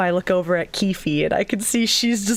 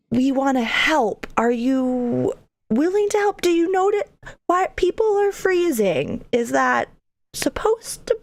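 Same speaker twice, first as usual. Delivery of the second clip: higher, halting appeal; hesitant negotiating; 5 semitones higher than usual. Acted. Player awkwardly offering the creature help, hesitant negotiating. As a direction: feel your way through the question, pitched up.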